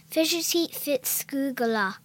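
slow, careful stab at Scottish; amateur put-on Scottish; Scottish accent attempt. Shown as a demonstration. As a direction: sound out the name in hesitant Scottish. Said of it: "say that in a Scottish accent".

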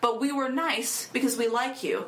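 mock-sweet warning rising to a sharp threat; smile, then menace; veiled threat. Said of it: "said in a way that's like".

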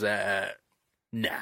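a pause before a flat nah; thinking it over. Retold or imitated. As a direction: mull it over, then nah. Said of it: "he has a think about it".

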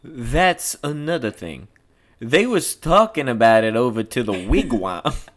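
drawling know-it-all; Floyd, boastful talker. Acted. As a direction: play a self-important local cop. Plays Floyd in script reading.

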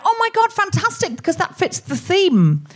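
gush, thrilled by a perfect find. Retold or imitated. Host thrilled that her guest's story fits the theme, excited. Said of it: "I was genuinely thrilled".

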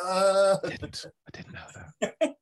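high squeaky falsetto, half whispered; mock squeaky denial. Joking denial after being caught.

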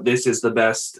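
flat robot voice. Pretend. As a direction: say it like a machine. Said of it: "I'm talking like a robot".

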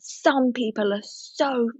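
put-on slow, sneering old lady mutter; mock her nasty aside slowly; hint of a spiteful old woman; mimicking scary old lady. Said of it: "Like, so scary".

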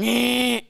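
lightly mimicked koala bleat; one short "eh" like the koala; koala-cry impression; imitated dying koala. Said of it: "sounds like the koala's dying".

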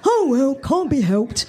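mildly bright shrug-off; sunny. A narrator's reading. Kathy shrugs off the tragedy to Suze, lightly sunny. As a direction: brush it off cheerfully. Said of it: "Kathy was sunny once more".

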